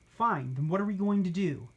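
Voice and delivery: grudging, annoyed huff; huffy. Acted. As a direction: give in with a huff. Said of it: "Gertrude huffed".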